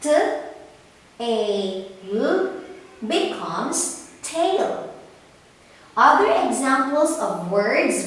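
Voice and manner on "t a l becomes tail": slow sounding out, then "tail" said whole; blending sounds. Shown as a demonstration. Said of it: "Can you say it with me".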